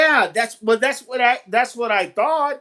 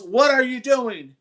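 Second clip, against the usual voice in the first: mild mock yell, raised pitch, drawn out; retold yell; 4 semitones higher than usual. Man challenging someone out back of the house, mild retold yell. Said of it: "and he yells".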